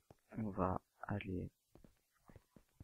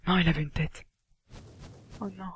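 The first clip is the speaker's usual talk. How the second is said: loud, high-pitched protest; real dismay; 11 semitones higher, 12 dB louder than usual. Real, not acted. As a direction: cry out in frustration at the loss. Dismay at losing a head drop. (cri de dépit)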